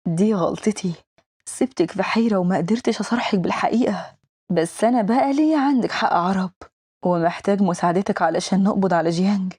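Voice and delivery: a mild touch of tenderness; warm voice. Acted. Man apologises to the daughter he protected, gently warm. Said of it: "بصوت دافي".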